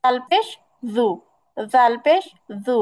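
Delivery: জাল পেশ জু said softly, with light lips; soft zal. Shown as a demonstration. Teacher showing the soft letter to her class. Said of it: "মানে নরম করে বলবো".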